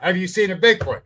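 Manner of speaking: retold heated cross-examination; angry challenge. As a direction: corner him with it. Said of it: "now I'm mad".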